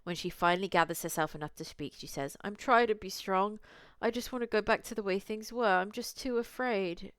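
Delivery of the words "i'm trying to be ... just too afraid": tearful. Acted. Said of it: "She's crying so hard she's gasping for breath".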